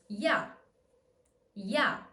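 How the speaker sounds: I and A in one sound; ya with Y glide. Shown as a demonstration. Teacher modelling ya for learners with short I. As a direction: glide Y straight into A. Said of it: "not a full I".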